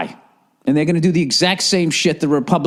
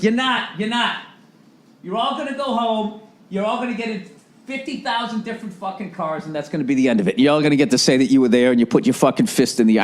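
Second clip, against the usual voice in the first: mocking rally voice; 2 semitones higher than usual. Mocking a political rally crowd.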